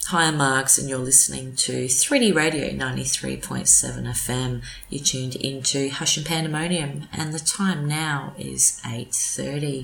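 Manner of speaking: smooth radio host intro. Shown as a demonstration. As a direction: announce it like a DJ. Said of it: "Give us a bit of radio voice".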